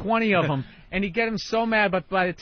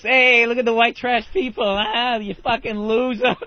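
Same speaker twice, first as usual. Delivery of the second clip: higher, jeering clown taunt; trashing heckler; 3 semitones higher, 4 dB louder than usual. Retold or imitated. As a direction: heckle them like an obnoxious clown. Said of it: "he's just trashing these people".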